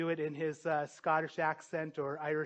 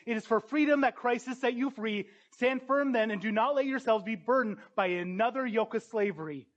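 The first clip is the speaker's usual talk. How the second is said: higher-pitched, insistent scripture quote; adamant; 5 semitones higher, 4 dB louder than usual. Acted. Quoting Paul's letter to the Galatians to believers, adamant. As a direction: press the words home adamantly. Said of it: "Paul so adamantly in Galatians says".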